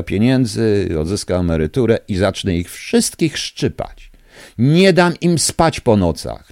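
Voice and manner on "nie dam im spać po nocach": angry. Real, not acted. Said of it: "jestem wściekły dzisiaj".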